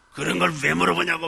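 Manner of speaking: a touch of acted irritation; mock angry retort. Preacher imitates an irritable boss at work, mock angry retort. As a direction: imitate a touchy snap at a question. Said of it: "막 그러면서 화를 내는".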